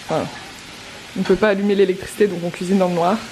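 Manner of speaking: excited. Real, not acted. Excited cooking in the dark.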